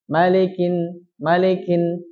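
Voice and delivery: malikin with li said as le; blurred li. Shown as a demonstration. Teacher showing the vague li reading. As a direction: blur the li of malikin into le. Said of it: "Sama saja membacanya dengan sesamar apapun".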